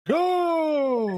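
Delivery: high, drawn-out gleeful call; playful cheer. Pretend. Player joking about a slide into the pipe, high playful cheer. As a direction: whoop it like someone launching down a slide.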